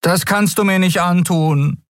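put-on young Miko pleading with Nelen. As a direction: beg her, desperate. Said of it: "flehte Miko".

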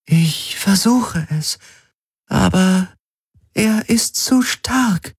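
a calm machine giving a diagnosis; ship computer. Acted. Ship AI Helix strains.

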